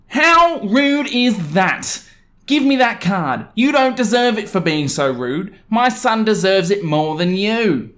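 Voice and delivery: very slow, high, indignant whine; entitled mum, outraged. Acted. Entitled mum demanding the card for her son, slow and high. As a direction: stretch every word in mock outrage.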